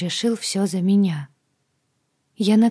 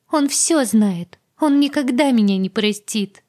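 high, loud frightened cry; panicked fear; 4 semitones higher, 6 dB louder than usual. Acted. Agata to heroine, high loud panic. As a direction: dread Myron's hatred.

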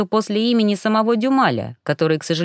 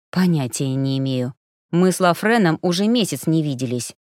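nervous, giving himself away; a hint of agitated denial; 4 semitones lower than usual. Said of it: "взволнованный голос Милу выдавал его с головой".

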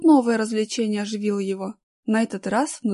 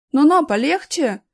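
louder, higher protest; boy's shout; 5 semitones higher, 6 dB louder than usual. A narrator's reading. Boy objects to the guard's grip, crying out. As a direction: cry out in protest, pitch lifted. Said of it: "крикнул Аркаша".

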